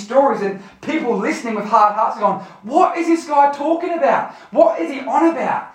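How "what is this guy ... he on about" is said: higher-pitched mock bafflement; baffled listeners. Hard-hearted listeners wondering about the stories, mock baffled. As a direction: puzzle aloud as a lost listener.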